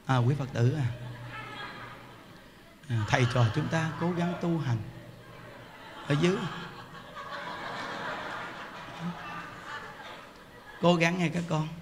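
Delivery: monotone preacher parody; droning monk imitation. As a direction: imitate a dull monk lulling the hall to sleep. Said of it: "Còn gặp mà im điềm mà dưới".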